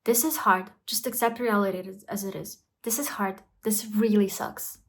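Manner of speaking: soothing inner voice; kind self-talk. Shown as a demonstration. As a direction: talk to yourself like a friend. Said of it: "and say".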